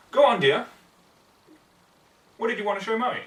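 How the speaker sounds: bright, high, loving mother; mother's voice. A narrator's reading. Mother encouraging her little daughter, high and sweet. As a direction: coax her gently like a proud young mum. Mother's quoted words in story.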